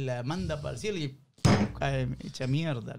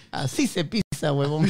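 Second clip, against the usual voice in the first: cocky hen punchline; 6 dB louder, slower than usual. Acted. Hen boasts in joke punchline.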